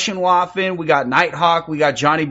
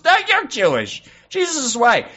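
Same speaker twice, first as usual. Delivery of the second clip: mock heated retort; 10 semitones higher than usual. Acts out the reply in the argument.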